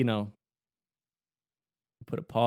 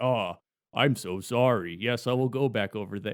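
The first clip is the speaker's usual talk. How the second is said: polite lion voice; 3 semitones lower than usual. Retold or imitated. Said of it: "And he's like".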